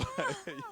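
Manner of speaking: short, high-pitched imitated giggle; girlish giggle. Drummer recalling his bandmate after a song, high girlish giggle. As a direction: giggle high, like a little girl. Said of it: "giggled like a little girl".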